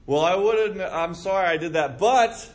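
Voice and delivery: mock someone shifting the blame; hammed-up grudging apology; defensive excuse.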